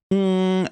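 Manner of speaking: tongue-up nasal hum; nasal hum demo. Shown as a demonstration. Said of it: "just go".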